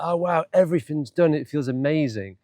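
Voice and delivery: delighted relief. Retold or imitated. Vlogger voicing their joy at an empty to-do list, delighted. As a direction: re-enact a moment of pleased amazement.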